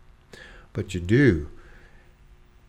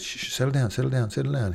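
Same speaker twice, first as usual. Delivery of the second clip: soothing lifeguard; 3 semitones higher, much faster than usual. Retold or imitated. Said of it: "He says".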